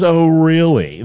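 loud, drawn-out "oh, really"; mock teacher disbelief. Teacher challenging little Timmy in a joke, mock disbelief. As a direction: play up the teacher's scepticism, slowly.

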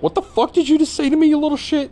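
an ogre shrieking at a tiny upstart; furious ogre yell. Retold or imitated. Ogres insulted by Goblin Slayer, high mock furious shout.

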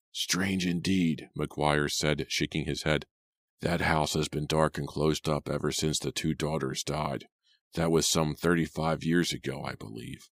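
put-on an old man sizing up a stranger; suspicious old cabby.

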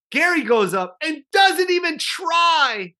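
high, slow shout of disbelief; slow, high-pitched outraged yell; exasperated shout. Real, not acted. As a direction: yell it like you still can't believe it.

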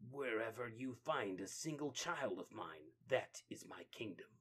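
soft, stern claim; quiet menace. Acted. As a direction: softly lay down the law. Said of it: "says Hathan".

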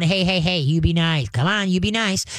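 firm, even "hey, hey" to a growling dog; calm warning. Shown as a demonstration. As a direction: check the dog without yelling. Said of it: "You wanna call 'em on".

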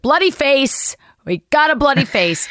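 mock panic, nobody here's a doctor; panicked bystander. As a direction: blurt it out helplessly. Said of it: "I'm just like".

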